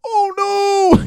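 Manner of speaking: very high, loud fake "oh no"; hammed-up falsetto gasp of innocence; mock shocked squeal. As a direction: squeal it like you're caught out. Prankster fakes shock after farting.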